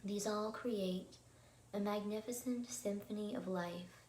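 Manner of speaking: unhurried calm, phrase by phrase; guided meditation. Acted. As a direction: guide listeners gently into calm, leaving room to breathe. Leads an evening meditation.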